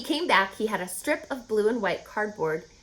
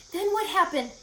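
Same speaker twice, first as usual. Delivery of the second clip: pig's voice; 9 semitones higher than usual. Acted. Wilbur eager question.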